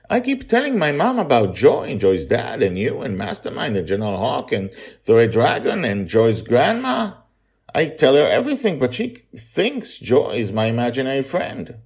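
put-on high, loud child asking back; a small boy confused by the question; puzzled little boy. Charlie explains, child voice.

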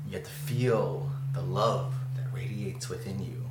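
hushed, airy matronly spirit voice; lightly voiced matron, half-whispering from a vision. Matronly voice speaking to a dreamer in a vision, lightly whispered. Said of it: "this matronly voice".

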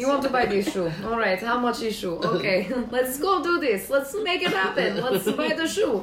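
light mock Russian accent; playful Russian accent as a cashier. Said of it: "talk the whole time in a Russian accent".

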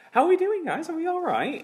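high, bright call to the room; rally the guests like a host warming up a crowd; excited call-out. Real, not acted.

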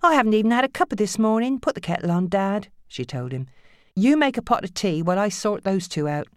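harried mother giving orders; bossy mother. Acted. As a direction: order her dad around. Nancy voiced.

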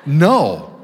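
slow, deadpan no; flat refusal. Retold or imitated. Listener turning down another long chat, slow and deadpan. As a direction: drag out the refusal dryly. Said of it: "You're like".

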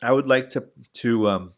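scam caller. Retold or imitated. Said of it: "they'll say something like".

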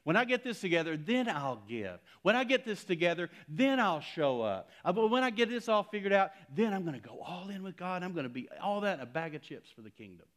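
loud, hammed-up voice of a putting-it-off believer; mock excuse-maker. Preacher mocking believers who keep delaying God, loud and hammed-up. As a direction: mimic the excuses, high and loud.

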